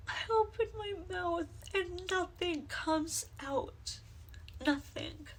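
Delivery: hollow, weary despair with long pauses; quiet hopelessness, reaching out for a listener; anguished monologue. Acted. Performs own written monologue.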